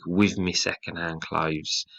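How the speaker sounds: "With me second-hand clothes" slow, in a light Liverpool working class accent; northern working class accent. Shown as a demonstration. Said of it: "forces you into a sort of northern working class accent".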